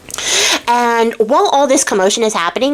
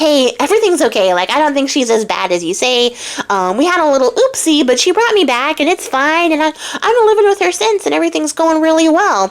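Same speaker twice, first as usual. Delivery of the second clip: higher and faster, tumbling out cheerfully; eager reassurance; 6 semitones higher, faster than usual. Retold or imitated. Shu eagerly assures the monk all is well, higher and faster. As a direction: rush to convince him it's all fine, voice climbing.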